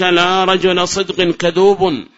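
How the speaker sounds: slow formal reading; slow recital. Shown as a demonstration. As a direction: read the example out slowly. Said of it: "recites example slowly".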